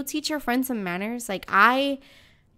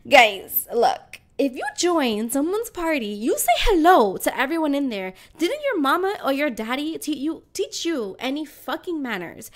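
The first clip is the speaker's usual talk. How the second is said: a raised, preachy telling-off about manners; scolding rant. Retold or imitated. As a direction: lecture the room like a fed-up parent. Ranting at the party guests.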